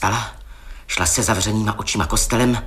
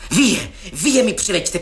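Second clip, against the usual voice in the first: higher, half-shrieked command from the coffin; shrieking dead witch; 8 semitones higher than usual. Acted. Dead witch screaming for her monsters, higher mock shriek. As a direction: cry it out like the risen dead girl. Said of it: "křičela".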